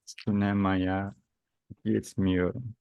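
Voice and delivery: slow, careful teacher modelling; slow model sentence. Shown as a demonstration. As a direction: spell it out slowly for learners. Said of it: "teacher models the corrected answer".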